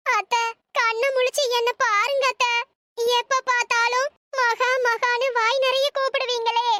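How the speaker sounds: tearful lament over the dead, ending in sobs; acted crying. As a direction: plead through mock tears. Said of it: "எதுக்கு மகா இப்படி அழுகுறா?".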